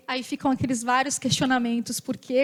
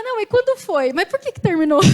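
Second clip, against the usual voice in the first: eager, higher-pitched prying questions; pry eagerly, pitched up; nosy curiosity; 6 semitones higher, 5 dB louder than usual. Acted. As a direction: play the friend dying to know the gossip. Voicing a nosy friend's questions.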